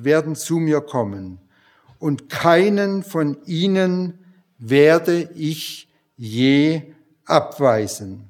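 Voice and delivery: measured, earnest Bible reading with slowed key words; preacher reading John six aloud; scripture reading. Acted. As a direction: read Jesus' words solemnly to the congregation. Reads Jesus' words from John 6.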